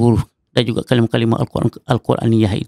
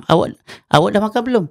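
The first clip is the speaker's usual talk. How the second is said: "Awak dah makan belum?" fast, stress on dah; odd intonation; 6 semitones higher, faster than usual. Shown as a demonstration. Teacher mimics a foreign-sounding stress. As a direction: rush it and hit dah. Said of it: "orang yang selain daripada kita tak faham".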